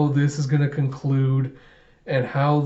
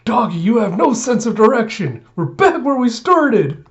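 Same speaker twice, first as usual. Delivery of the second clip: put-on high, loud childish scolding; high loud whiny complaint; exasperated little girl; 8 semitones higher, 6 dB louder than usual. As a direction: scold the dog like a frustrated kid. Anya scolding the dog.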